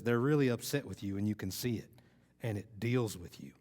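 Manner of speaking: lightly imitated Texas Southern accent; attempted Southern accent. Speaker quoting a Texas truck-contest competitor, in an attempted Southern accent. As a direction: try on a mild Southern twang. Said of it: "I'm gonna try my Southern accent".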